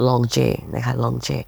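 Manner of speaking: French accent on the name "Longe"; French pronunciation. Shown as a demonstration. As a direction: say "Longe" the French way, slowly and deliberately. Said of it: "สำเนียงฝรั่งเศสว่า".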